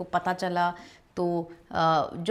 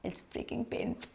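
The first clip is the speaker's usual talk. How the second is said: whisper; 5 semitones higher, 12 dB quieter, much slower than usual. Real, not acted. Confessing the pain of delivery.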